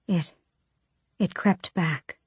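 slow, soft and breathy; breathy whisper. Acted. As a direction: breathe the words out slowly. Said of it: "she breathed".

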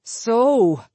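sharp high cry of alarm; a sudden scream of surprise; startled shriek. A narrator's reading. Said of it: "by screaming the moment she saw him".

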